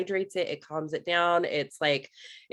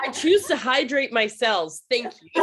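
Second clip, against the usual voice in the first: playful, higher-pitched self-assertion; mock-proud declaration; 5 semitones higher, 4 dB louder than usual. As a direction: declare it grandly, half laughing. Playfully acts empowered reply to teacher.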